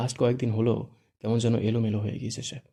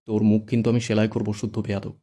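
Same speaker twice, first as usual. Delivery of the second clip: angry threat; 4 dB louder than usual. Acted. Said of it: "রেগে মেগে".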